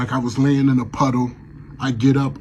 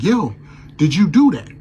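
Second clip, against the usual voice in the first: raised voice demanding an answer; demanding answer from the ghost, loud; 4 semitones higher, 5 dB louder than usual. Retold or imitated. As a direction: confront him, loud and high. Confronting changed ghost.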